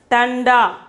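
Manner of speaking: tanda with an n before the da; tanda, long final a; bindu as n. Shown as a demonstration. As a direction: say tanda as tun-daa, nasal in the middle. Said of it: "we have to pronounce it as".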